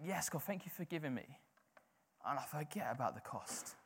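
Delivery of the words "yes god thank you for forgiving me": blasé thanks. Retold or imitated. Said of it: "I'm like".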